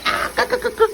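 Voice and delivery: muffled grunts through clenched teeth; straining hums with phone in mouth; phone held in teeth. Real, not acted. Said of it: "Lord, I put the phone in my mouth".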